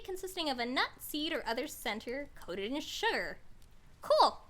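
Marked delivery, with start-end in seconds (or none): 4.0-4.4 pleased. Real, not acted. Reads comfit definition, pleased.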